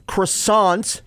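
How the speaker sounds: "croissant" with the R softened to a W; French-style croissant. Shown as a demonstration. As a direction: say "croissant" slowly as kwa-sont. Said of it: "croissant is actually croissant".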